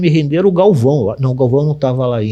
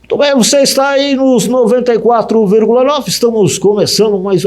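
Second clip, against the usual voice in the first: higher, light take on a veteran radio host; Julinho Mazei impression; 7 semitones higher than usual. New hire imitating the famous announcer for the boss, higher. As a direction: copy the star announcer's patter, not his big voice. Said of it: "E eu imitei o Julinho".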